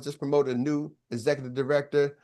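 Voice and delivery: usual speaking voice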